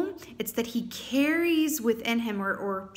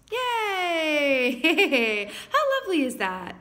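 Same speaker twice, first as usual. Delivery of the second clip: real cheer, higher and louder with laughter; delighted laugh; 6 semitones higher, 5 dB louder, much slower than usual. Real, not acted. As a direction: cheer with joy at the card. Delighted by the card.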